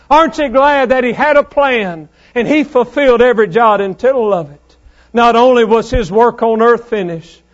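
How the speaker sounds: emphatic, driving pulpit delivery; forceful preaching. Real, not acted. Preacher rejoicing that the work was finished, forceful preaching. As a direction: press it on the congregation with conviction.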